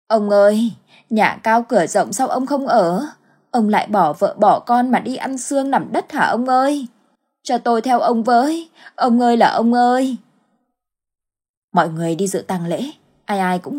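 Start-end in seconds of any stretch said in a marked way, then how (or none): 0.1-10.2 khóc than, gào lên cho cả xóm nghe; wailing. Acted. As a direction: than khóc giả vờ, kéo dài tiếng gọi. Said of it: "cũng gào lên cho mọi người cùng nghe". (gào khóc than vãn)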